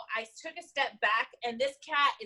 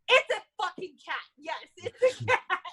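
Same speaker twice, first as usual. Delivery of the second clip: laughing exasperation; 5 semitones higher, 5 dB louder than usual. Retold or imitated. Exasperated retort to the officer.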